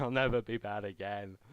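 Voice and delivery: imitating her sobbing child self; retold crying plea. Child in tears promising Santa on the phone, mock sobbing. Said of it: "I was in tears going".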